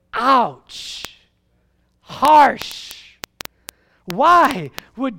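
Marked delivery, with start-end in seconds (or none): 0.1-2.9 pained wince. Real, not acted. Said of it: "I can't even swallow right now".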